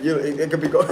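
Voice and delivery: words breaking into a giggle; starting to crack up mid-sentence; laughing. Real, not acted. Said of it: "I'm trying not to laugh".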